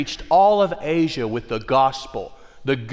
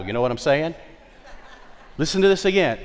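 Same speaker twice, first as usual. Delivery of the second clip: ordinary talk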